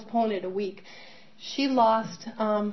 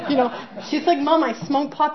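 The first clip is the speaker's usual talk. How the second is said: laughing; 5 semitones higher, 6 dB louder than usual. Real, not acted. Laughing while quoting daughter.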